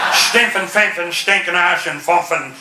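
gibberish in a mock German accent. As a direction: rattle off fake German. Mock German to Luftwaffe-suited man.

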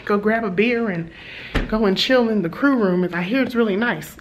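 retelling a coworker's keen plans; excited, imitating colleague. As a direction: lightly act out someone looking forward to a treat. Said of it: "he's, like, so excited about".

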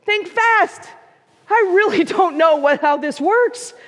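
high call easing back toward normal pitch; storyteller lightly acting a hurried yell; mild yell down. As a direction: call down from way up, half-yelling. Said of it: "yells back down".

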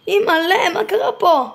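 high, laughing through the shock; laughing disbelief. Real, not acted. Laughs at the wrecked car.

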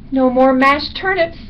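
woeful little bat; lamenting bat. A narrator's reading. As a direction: wail the list item up high. Bat continues list of lost meals.

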